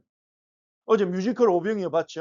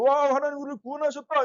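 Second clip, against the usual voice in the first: mock cheer, pitched high; higher-pitched, lightly acted jubilation; joyful praise; 6 semitones higher than usual. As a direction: play a crowd rejoicing in praise. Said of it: "하나님 찬송하면서 막 나왔어요".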